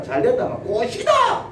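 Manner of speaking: slow, laughing gloat; mock gloating laugh. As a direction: gloat with a chuckle like it's all worked out.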